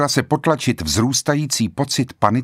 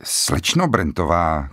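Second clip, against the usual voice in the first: stammering; 5 semitones lower, slower than usual. A narrator's reading.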